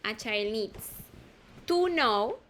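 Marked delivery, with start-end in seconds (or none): 1.7-2.4 to said high and loud, know falling after it; teacher stresses to as the joining word. Shown as a demonstration. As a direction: hit the word to to show the link between the verbs. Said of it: "usando to".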